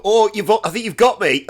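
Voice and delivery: high, loud fake-modest whine; mocking a smug strong guy; mock feigned defeat. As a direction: pretend to be losing, hammed up. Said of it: "that bell end thing that strong people do".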